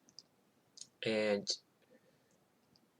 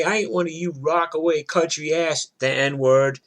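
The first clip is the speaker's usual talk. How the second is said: loud, higher-pitched retold rant; screaming brawler; 4 semitones higher, 6 dB louder than usual. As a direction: imitate a woman hollering insults in a street fight. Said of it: "she's screaming".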